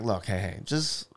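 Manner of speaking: soft, low, placating voice; gently defuse a row between others; calm peacemaker. Retold or imitated. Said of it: "I'm trying to be the peacemaker".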